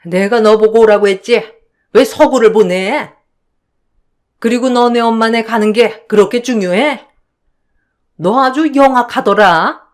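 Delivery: furious mother-in-law tearing into her; mother-in-law yelling. Acted. Mother-in-law screaming at her daughter-in-law at home, mildly acted. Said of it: "아파트 단지가 떠나가라 소리를 질렀어요".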